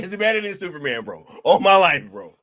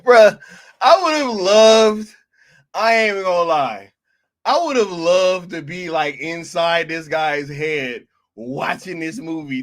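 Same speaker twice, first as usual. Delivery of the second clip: excited rant; 7 dB louder than usual. Real, not acted. Excited rant about reviewer.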